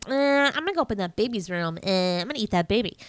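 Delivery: quick, lightly voiced villain rat; evil rat. Rat threatening the baby, mock evil. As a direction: mimic a scheming rat in passing. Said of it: "that evil fucking rat".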